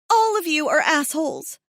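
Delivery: accusing anger. A narrator's reading. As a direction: throw it at all of them. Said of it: "my accusing stare".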